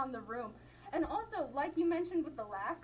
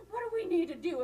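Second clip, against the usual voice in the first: raised, louder speechmaker's question; imitating rhetorical question; 5 semitones higher, 5 dB louder, faster than usual. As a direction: throw it out to a crowd, mimicking an orator. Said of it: "a rhetorical question".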